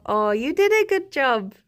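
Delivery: cooing praise with a big swoop up; fond praise. Real, not acted. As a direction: coo it like praising a pet. Praises Jerry fondly.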